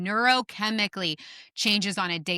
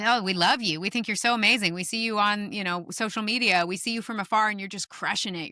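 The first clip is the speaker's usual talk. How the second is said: lightly acted fan praise, a little higher; gushing admirers; 3 semitones higher than usual. Social media admirers praising Tyler from afar, mildly gushing. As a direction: gush like an adoring follower.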